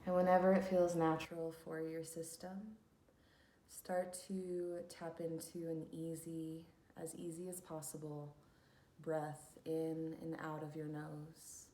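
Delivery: unhurried instructions for settling into stillness; guided meditation. Acted. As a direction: lead listeners into calm, leaving long pauses.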